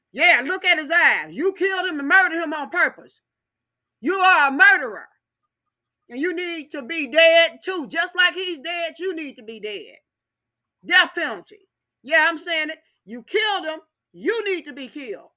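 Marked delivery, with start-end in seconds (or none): 0.1-9.6 angry. Real, not acted. Furious rant at the killer deputy.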